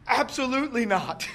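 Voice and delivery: high-pitched, emphatic "Absolutely not"; emphatic refusal. Shown as a demonstration. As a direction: hit "Absolutely" high and hard, rejecting it outright. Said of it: "is, like, emphatic".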